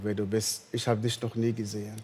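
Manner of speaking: ordinary talk, nothing marked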